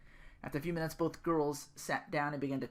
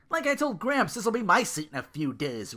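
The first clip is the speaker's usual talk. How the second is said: boastful, louder high declaration; proudly; 9 semitones higher, 6 dB louder than usual. Acted. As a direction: crow about the throne. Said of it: "Ru declared proudly".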